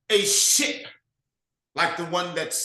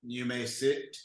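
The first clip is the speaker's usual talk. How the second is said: a brooding leader questioning his servant; low commanding chieftain; 5 semitones lower than usual. Acted. Nabalac questioning Du Bois, low and brooding.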